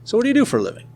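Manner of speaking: high-pitched Boston guy asking; Boston accent. Retold or imitated. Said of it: "like, a heavy Boston accent".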